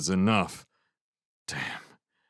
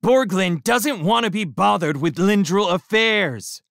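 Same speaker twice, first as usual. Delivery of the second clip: high, loud angry insistence; 11 semitones higher, 6 dB louder than usual. A narrator's reading. Shrimp keeps arguing.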